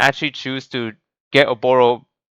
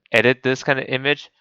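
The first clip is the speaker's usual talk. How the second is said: voice cracking. Real, not acted. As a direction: voice cracks mid-phrase. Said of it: "Sorry, my voice cracked".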